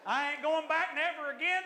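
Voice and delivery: high, loud mock outrage; hammed-up vow of boycott, rising at the end; mock indignant refusal. Louder repeat of mock refusal.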